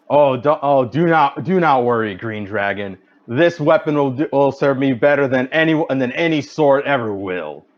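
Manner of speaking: mildly commanding, measured delivery; a touch of heroic authority. Acted. Hero tries to reassure the green dragon, commanding voice. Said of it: "try to say in a commanding voice".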